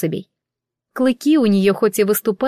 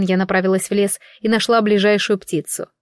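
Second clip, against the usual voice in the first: usual speaking voice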